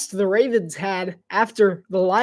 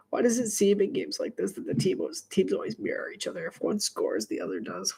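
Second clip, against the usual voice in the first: whispering; 9 dB quieter than usual. Real, not acted. Quiet musing aside.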